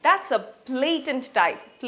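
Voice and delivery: indignant fan; indignant call. Shown as a demonstration. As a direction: point out the blatant dive. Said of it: "বা".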